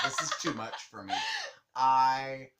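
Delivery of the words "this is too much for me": much higher squeaky imitation of the roommate; mock roommate. Retelling how her roommate walked out, squeaky high mock voice. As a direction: pitch way up to play the fed-up roommate. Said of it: "She was like".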